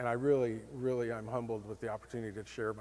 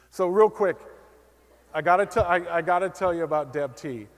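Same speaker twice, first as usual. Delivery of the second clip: rushing out of time; 5 semitones higher, 11 dB louder than usual. Real, not acted. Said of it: "One minute left?".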